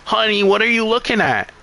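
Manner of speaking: a hint of a sweet-sinister old woman; creepy old lady. Recapping a horror movie, a creepy old lady greeting the heroine. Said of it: "this creepy old lady comes out".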